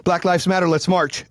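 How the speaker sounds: mock-eager protest organizer; mock activist rallying. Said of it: "the libtards are gonna pull out".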